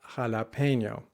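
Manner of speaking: jalapeño with an English h and a y-glide; jalapeño with an American accent; wrong anglicized jalapeño. Shown as a demonstration. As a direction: say jalapeño the gringo way, e sliding into ay.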